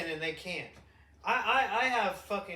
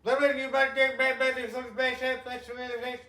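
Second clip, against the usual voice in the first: high, loud alien babble; hammed-up alien voice chanting back; mock alien voice; 6 semitones higher, 8 dB louder than usual. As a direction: play a goofy alien calling out.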